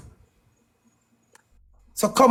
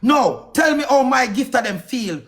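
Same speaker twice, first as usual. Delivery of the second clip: raised, heated demand; angry outburst; 4 semitones higher than usual. Real, not acted. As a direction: confront her hard, voice up. Angry live-stream rant at ex.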